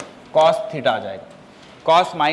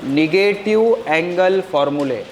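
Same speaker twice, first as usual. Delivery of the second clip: heading drawn out word by word; slow dictation; slower than usual. Shown as a demonstration. Teacher to pupils writing the heading, slow dictation. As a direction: dictate slowly so pupils can write.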